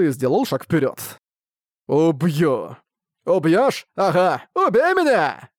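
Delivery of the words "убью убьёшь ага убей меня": high yelled dare; drunken taunt. Acted. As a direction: goad him, shouting high. Drunk merchant dares Ark to kill. (пьяная насмешка, выкрик)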